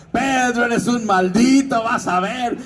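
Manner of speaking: a touch of a sneering villain; hammed-up villain curse; villain's dying line.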